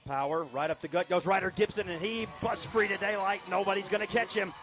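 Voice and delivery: rising excitement as he breaks free; excited call. Real, not acted. Touchdown run play-by-play.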